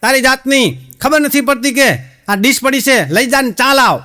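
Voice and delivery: husband shouting orders at his wife before a guest; mock yell at wife. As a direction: yell for her to clear the plate. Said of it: "ફરતી રાડ પાડી".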